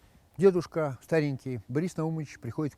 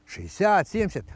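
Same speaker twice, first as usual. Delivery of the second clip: doctor voice; 5 semitones higher than usual. Acted. Doctor asks.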